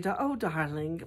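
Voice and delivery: slow, lightly imitated British "dahling"; Lisa Vanderpump. Vlogger fondly quoting a celebrity, slow light impression. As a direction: draw it out like a British socialite. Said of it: "I used to love it when she'd say".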